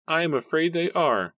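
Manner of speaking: put-on high, sorrowful old man; old father confessing; sad old man. A narrator's reading. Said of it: "her father confessed sadly".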